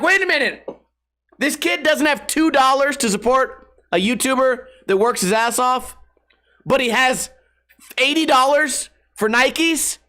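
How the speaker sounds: mock outrage at the kid's logic; incredulous outburst. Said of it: "And I'm like".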